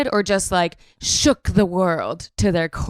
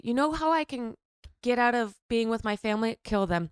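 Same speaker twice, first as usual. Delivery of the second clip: hushed sinister voice; 2 semitones higher, 9 dB quieter, faster than usual. Pretend. Voicing a killer's logic.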